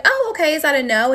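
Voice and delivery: taken aback. Retold or imitated. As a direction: retell an awkward, polite check after a snub. Retold awkward reply to snub.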